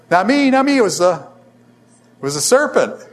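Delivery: the woman passing the blame to the serpent, in a high panicky cry; panicked denial. Acted. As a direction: yelp it out, desperate to pass the blame. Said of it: "And the woman says".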